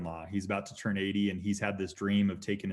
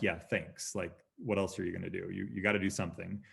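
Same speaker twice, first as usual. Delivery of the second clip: sarcastic thanks; 3 semitones lower, 5 dB quieter than usual. Retold or imitated. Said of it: "And I'm like".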